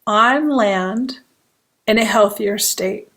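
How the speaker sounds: unhurried guiding voice with long pauses; guided meditation. Acted. Hypnotherapist opening a meditation for fearful empaths, calm guiding voice. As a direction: lead listeners gently inward, one phrase at a time.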